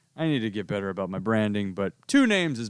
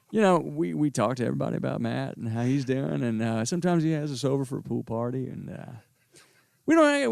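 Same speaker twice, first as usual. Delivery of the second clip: an easygoing Wendy's worker proud of his famous kin; McConaughey brother; 3 semitones higher than usual. Pretend. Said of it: "the dueling McConaughey brothers".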